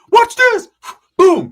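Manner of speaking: put-on high kid voice. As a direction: whine like a boastful little boy. Voicing Ricky kicking door.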